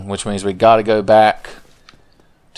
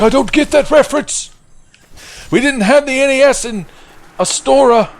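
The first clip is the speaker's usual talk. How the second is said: much higher squeaky Oscar voice; 4 dB louder than usual. Retold or imitated. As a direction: play Oscar high and puzzled. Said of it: "He's like".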